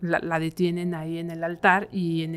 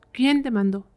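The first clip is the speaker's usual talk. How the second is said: exorcist's demand; 7 semitones higher, 4 dB louder than usual. Retold or imitated. Two priests question the spirit.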